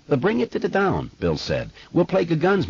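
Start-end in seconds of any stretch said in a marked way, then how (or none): 0.1-1.1 put-on boy stammering on first sounds; stuttering. A narrator's reading. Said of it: "Did you notice that he stutters?". 1.9-2.7 put-on boy stammering on first sounds; stuttering. A narrator's reading. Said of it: "Did you notice that he stutters?".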